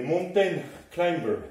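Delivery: slow English words in a French accent; unhurried, heavily French English pronunciation. Real, not acted. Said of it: "mon accent anglais est parfait".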